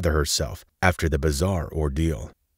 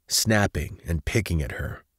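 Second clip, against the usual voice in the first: ordinary delivery, nothing marked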